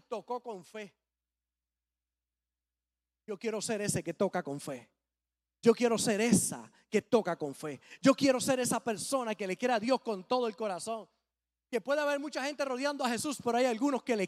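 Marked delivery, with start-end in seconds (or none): 3.2-11.1 fervent declaration. Real, not acted. Preacher declares his own longing.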